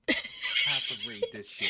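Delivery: high, squeaky laugh through the words. Real, not acted. Forced to read awful fanfic, breaking into laughter. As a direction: lose it mid-sentence. Cracking up reading aloud.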